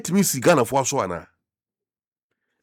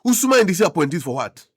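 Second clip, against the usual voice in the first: indignant, louder rhetorical question; incredulous echo; 3 semitones higher, 3 dB louder, faster than usual. Real, not acted. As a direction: throw "Usuma" back as a challenge. Throws the quote back in disbelief.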